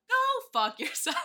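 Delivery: loud, high shout through a laugh. Retold or imitated. Friend hearing the voicemail, a laughing shout. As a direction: yell it out, cracking up. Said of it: "I was like".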